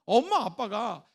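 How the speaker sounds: usual speaking voice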